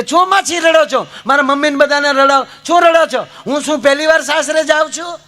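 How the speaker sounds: high-pitched, irritated scolding; mock annoyed bride. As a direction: imitate an exasperated daughter telling off her family. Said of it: "દીકરી ખીજાણી કે".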